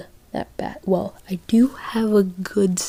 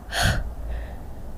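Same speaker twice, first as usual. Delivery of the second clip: heavy panting; 7 dB quieter than usual. Acted. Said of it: "You were panting heavily".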